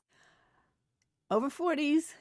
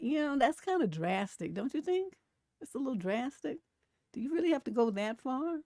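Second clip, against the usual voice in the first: imitating a polite, tactful objection in a higher pitch; mock-gentle questioning, pitched up; 5 semitones higher than usual. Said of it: "He was very gentle and polite with it".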